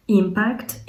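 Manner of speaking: impact said as IM-pact, the first syllable stressed. Shown as a demonstration. Teacher showing students the noun: IM-pact, first syllable stressed. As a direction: say impact with the weight on IM. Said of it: "наголос, до речі, на першу частинку".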